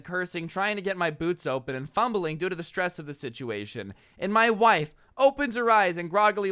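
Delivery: measured read-aloud of a posted story; story narration. A narrator's reading. Host reading a husband's post to listeners, narrating.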